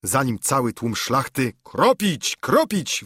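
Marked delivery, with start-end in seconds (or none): 1.6-3.0 crowd's war cry, pitched high; high, eager shout of the gathered gentry; yelled. A narrator's reading. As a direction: bellow it like a roused crowd. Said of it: "wrzasnął".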